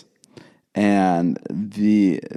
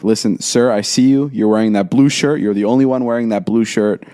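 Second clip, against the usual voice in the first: retold firm assurance; 4 dB louder than usual. Retold firm promise to the dad.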